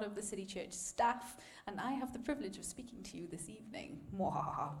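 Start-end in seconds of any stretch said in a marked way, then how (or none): 4.1-4.7 low villain cackle mwahaha; hammed-up evil villain laugh. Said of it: "I've always wanted to do an ev-, evil laugh".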